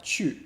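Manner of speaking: "chu" with a falling fourth tone; "chu" as a falling-tone example. Shown as a demonstration. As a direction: say "chu" with the pitch dropping. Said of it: "another fourth tone word".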